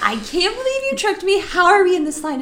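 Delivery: furious shouted "No!" at a friend; retold yell. Narrator yelling at Becky in the ride line. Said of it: "just yell at Becky".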